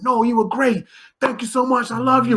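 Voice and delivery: high, loud, gushing thanks; effusive praise. Retold or imitated. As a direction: gush with gratitude.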